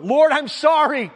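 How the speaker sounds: mild distressed cry to God; pleading prayer. Retold or imitated. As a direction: beg the Lord for help, half-acted. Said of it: "a cry of distress".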